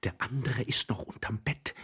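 hushed, hurried aside; low-voiced explanation. A narrator's reading. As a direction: confide it under your breath. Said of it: "erklärte der junge Mann leise und schnell".

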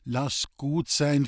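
slow, calm interjection. Acted. Lisbeth calmly stops the old man's outburst, slow. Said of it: "fiel Lisbeth ruhig ein".

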